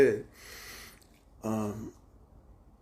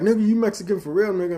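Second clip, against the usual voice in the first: higher, louder amazed question; friend's disbelief; 9 semitones higher, 6 dB louder, faster than usual. Retold or imitated. Friend doubting he is Mexican, mock amazed question. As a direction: act stunned at the news.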